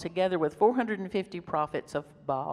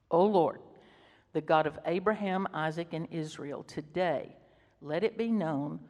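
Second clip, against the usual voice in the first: solemn prayer. Acted. Reads Elijah's prayer.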